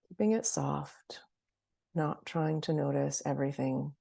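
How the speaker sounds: guided meditation. Acted. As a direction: gently lead them into noticing, leaving space between phrases.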